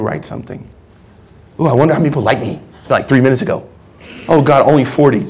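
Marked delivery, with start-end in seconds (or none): 1.6-5.3 fast, lightly voiced fretting over likes; mock social media user. Preacher mocks a believer counting likes, fast fretting. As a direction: rattle it off as a vain poster. Mocking someone checking their likes.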